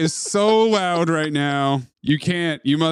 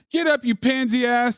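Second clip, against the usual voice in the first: lightly acted high-pitched heckle; heckling yell; 5 semitones higher than usual. Snake heckling a fallen fighter, mock yell. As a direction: jeer him back onto his feet.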